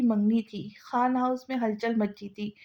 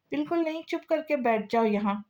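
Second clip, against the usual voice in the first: firm refusal; 3 semitones higher than usual. Acted. Aunt stops nephew leaving stage.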